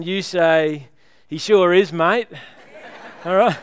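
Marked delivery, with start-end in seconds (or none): 1.3-2.3 Aussie accent. Shown as a demonstration. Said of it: "the Aussie version".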